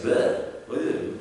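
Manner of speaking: mock garbled blurting. Mimics listener garbling a French name.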